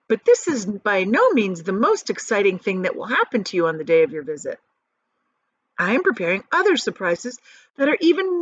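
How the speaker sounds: lightly voiced Wonka letter, a touch grand; reading a letter aloud. Father reads Wonka's golden ticket letter to the family, a touch grand. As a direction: read it out like a proud invitation.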